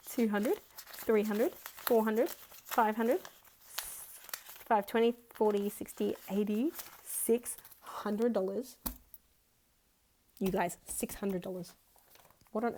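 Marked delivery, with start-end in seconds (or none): none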